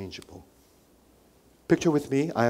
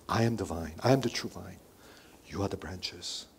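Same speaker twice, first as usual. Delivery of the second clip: softer, gentle reading of "I am the vine"; loving; 4 semitones lower, 6 dB quieter than usual. Shown as a demonstration. Pastor voicing Jesus' love to the congregation, softly. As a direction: let "I am the vine, you are the branches" fall soft and tender. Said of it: "Do you hear his love?".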